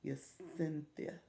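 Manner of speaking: Yacinthia stretched very slowly, dropping the last syllable; slowly trying Yacinthia without the extra syllable; slow careful try. Shown as a demonstration. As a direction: draw Yacinthia out, testing each part. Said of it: "think I'm adding a syllable".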